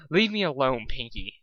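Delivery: muffled under a pillow; grumbling. Acted. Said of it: "Dusk grumbled underneath the pillow".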